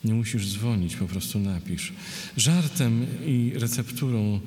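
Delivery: verse read phrase by phrase; poetry reading. Acted. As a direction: read a list poem with pauses between images. Poet reads a poem. (czytanie wiersza, z pauzami)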